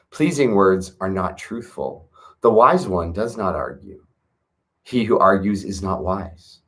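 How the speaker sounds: put-on calm, measured recitation of an old text; scripture reading. Reading the Tao Te Ching aloud to viewers, calm measured recitation.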